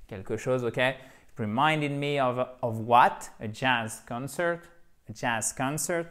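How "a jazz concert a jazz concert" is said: jazz CONcert, first syllable of concert stressed; teacher showing where the stress falls in concert; stress on con of concert. Shown as a demonstration. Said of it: "avec un accent tonique ici".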